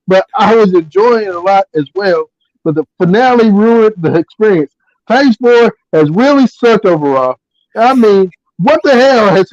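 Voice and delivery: emphatic read-aloud of someone's rant; reading an angry post aloud. Retold or imitated. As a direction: recite a friend's indignant review, phrase by phrase.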